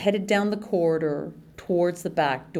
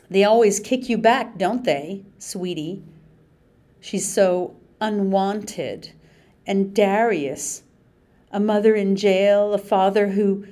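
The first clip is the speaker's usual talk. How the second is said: mocking taunt; 3 semitones higher, 4 dB louder than usual. Mandy Sue taunts the kids.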